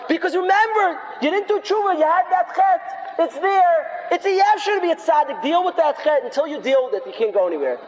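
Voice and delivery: high, insistent yell that eases at the end; yelling accuser. Acted. Sin's voice tells the sinner he is stuck, yelling high. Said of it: "That's what that voice yells".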